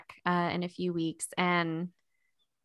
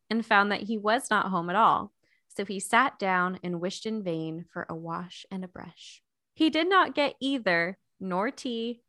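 story narration. Acted. Reads the book chapter aloud.

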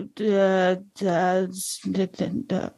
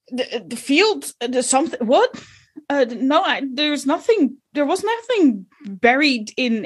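stammering, caught-out farmer, a bit higher; flustered farmer; 5 semitones higher than usual. Acted. Farmer Benny flustered under Belinda's questions. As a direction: fumble for words like you're hiding something.

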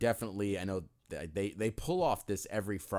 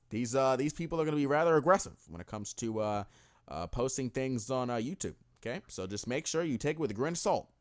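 Obama impression. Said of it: "white Barack".

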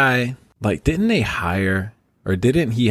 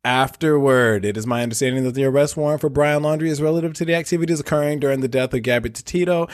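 news anchor voice; 3 semitones higher than usual. Pretend. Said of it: "give my best news anchor voice".

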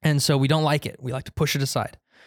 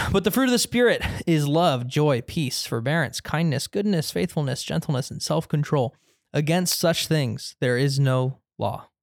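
scripture reading. Real, not acted. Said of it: "Let me read that again".

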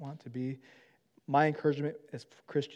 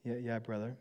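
sheepish gulp; 3 semitones lower, 9 dB quieter than usual. Retold or imitated. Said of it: "he gulped".

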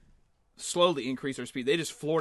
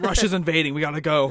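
loud fake emergency warning; hammed-up urgent evacuation call; mock alarm; 6 dB louder than usual. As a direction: raise the voice for a pretend invasion alert. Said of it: "a fake news story".

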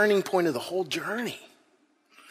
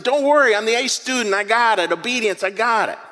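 1 cocky boast; 3 semitones higher than usual. Retold or imitated. Overconfident disciple boasting.

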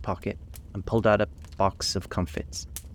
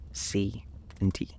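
slow, hushed whisper; 5 dB quieter, slower than usual. A narrator's reading. Alice to the mouse, half afraid of offending, whispering. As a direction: whisper each letter slowly and cautiously. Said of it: "she added in a whisper".

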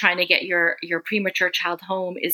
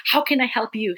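mock enthusiastic; 4 semitones higher than usual. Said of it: "totally excited and enthusiastic".

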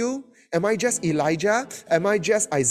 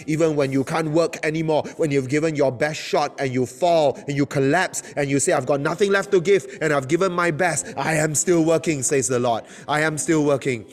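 fervent preaching; 3 semitones lower than usual. Acted. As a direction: preach it with building fire. Preaching at full force.

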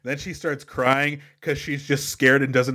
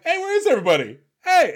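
calling out; 13 semitones higher, faster than usual. Retold or imitated. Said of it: "walking around like".

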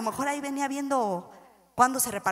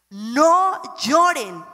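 slow comfort; 3 dB louder, much slower than usual. Acted. Jesus comforting the mourners.

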